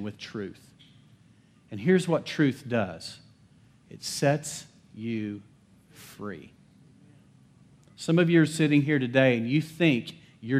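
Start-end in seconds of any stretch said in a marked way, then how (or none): 3.9-6.5 hushed. Real, not acted. Climax of sermon point.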